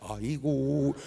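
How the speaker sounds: drawn-out mock lament; imitating a mourner wailing on cue; put-on mourning wail. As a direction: switch back into fake funeral keening. Fake wail resumed for next guest.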